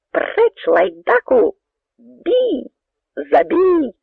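high, loud battle cries; bay for blood; soldiers yelling. A narrator's reading. Soldiers crying to kill the Cossack, yelling. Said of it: "лунали голоси жовнірів".

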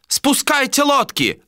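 very high, stretched command; shouted order. A narrator's reading. Mate orders boats down, high drawn-out shout. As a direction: holler it slowly to the sailors.

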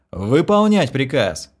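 slow, loud military order; barked command. Acted. Ordering the girl to the toilet, loud slow command. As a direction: bellow it like a captain. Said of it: "копируя своего отца".

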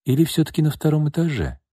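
coolly pointed question, pitched high; icy, doubting query; cold. A narrator's reading. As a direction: probe coldly without raising volume. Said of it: "холодно уточнила Настя".

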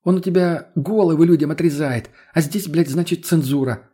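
high, loud outraged protest; indignant. Acted. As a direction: burst out in indignation. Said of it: "возмутилась Лена".

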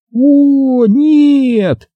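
high, loud cry of dismay; alarmed cry. A narrator's reading. Neighbour sees the kitten in the tree, alarmed cry. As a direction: gasp it out in alarm.

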